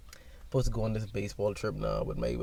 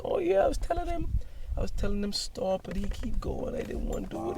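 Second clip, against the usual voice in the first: high-pitched imitation of a crying girl; mock tearful; 11 semitones higher than usual. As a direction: retell her tearful plea, pitched way up. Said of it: "They start just crying".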